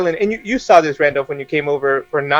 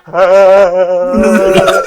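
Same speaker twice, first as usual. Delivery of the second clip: long, loud shuddering "aah"; mock frightened groan; 7 dB louder than usual. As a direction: groan out a drawn-out shiver of fright. Reacts to a chilling realisation.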